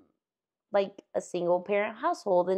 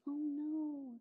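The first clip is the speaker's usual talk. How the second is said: ふっと声を落として優しく心配そうに; quietly, kindly, checking on a child; soft worried teacher; 6 semitones higher, 13 dB quieter than usual. Retold or imitated. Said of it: "And I was like".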